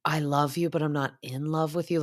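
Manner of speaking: lightly voiced wife, a matter-of-fact letdown; wife answering her husband's plea, a hint of a cool letdown; wife's gentle letdown. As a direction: mildly imitate her setting him straight. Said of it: "hers is more like".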